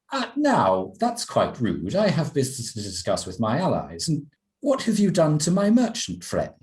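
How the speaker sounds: mildly sulky, put-out protest; a touch of pouting indignation; lady miffed at being dismissed, lightly sulky. Acted. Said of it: "she sounds quite sulky in this moment".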